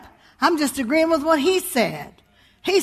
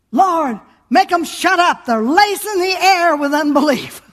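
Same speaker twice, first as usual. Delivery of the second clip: mildly raised mock outburst; retold cry out; 3 semitones higher, 3 dB louder than usual. Retelling a preacher silencing the singers, mildly raised. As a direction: replay the preacher's outburst, louder. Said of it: "he just screamed out".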